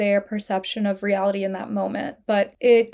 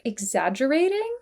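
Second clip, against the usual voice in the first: incredulous; 3 semitones higher than usual. Retold or imitated. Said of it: "she's incredulous".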